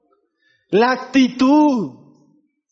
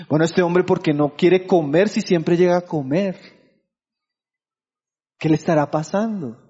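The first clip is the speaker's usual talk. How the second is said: puzzled wife; 5 semitones lower than usual. Retold or imitated. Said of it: "en el matrimonio es así".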